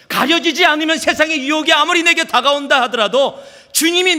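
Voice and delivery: high, loud, urgent sermon delivery; full-force preaching. Real, not acted. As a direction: drive the point home at full pulpit volume.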